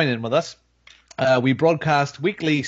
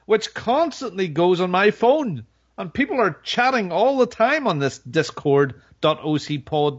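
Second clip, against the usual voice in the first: sarcastic enthusiasm; 4 semitones higher than usual. Pretend. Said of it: "You can hear the enthusiasm in my voice".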